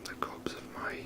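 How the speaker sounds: usual speaking voice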